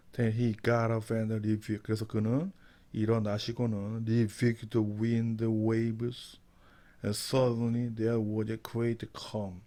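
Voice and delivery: slow, careful Bible reading for learners; slow verse reading. Shown as a demonstration. Teacher reading the verse slowly to students. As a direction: read each word slowly so students follow.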